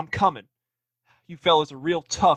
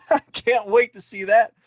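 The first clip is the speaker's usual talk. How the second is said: laughs then sneers it out; gloating laugh at his captors; mocking laugh; 5 semitones higher than usual. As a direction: laugh at them, then taunt. Tied-up deputy mocks his captors.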